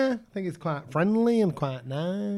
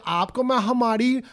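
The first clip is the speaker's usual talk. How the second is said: cheeky Hindi line; 4 semitones higher, faster than usual. Retold or imitated. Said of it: "a Hindi one would be like".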